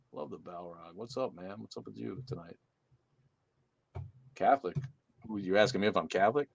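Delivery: ordinary talk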